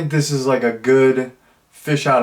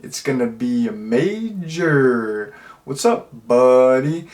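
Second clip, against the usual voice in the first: slow, laid-back surfer lingo with a pause; Pauly Shore impression; slower than usual. Reviewer showing the actor's iconic lingo, light surfer impression. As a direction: lightly imitate a California dude. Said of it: "typical Pauly Shore speech where he's, like, doing, like, a pause".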